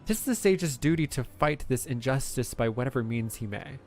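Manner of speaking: earnest dramatic declamation; impassioned sage. Acted. Sage arguing his duty to save lives, impassioned. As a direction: declaim it like a moral creed. Reads game character dialogue.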